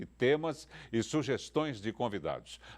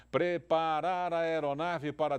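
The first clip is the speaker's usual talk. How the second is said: pilot cockpit headset; 3 semitones higher, slower than usual. Pretend. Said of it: "aqui é o comandante Arruda".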